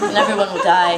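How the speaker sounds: mock doom dissolving into loud high laughter; laughing doom. Comic telling her dream's doom, laughing. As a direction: crack up at the doom.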